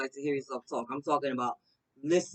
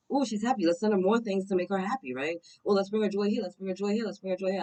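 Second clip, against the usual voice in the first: higher, delighted voice of the universe; playful universe voice; 6 semitones higher than usual. Pretend. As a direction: voice the universe as if it's thrilled to give. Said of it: "The universe is like".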